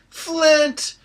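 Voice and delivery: high, delighted shout of a name; joyful cry. Acted. Excited cry. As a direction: Kinder cries out with joy at seeing Flint. Kinder greets old friend dwarf.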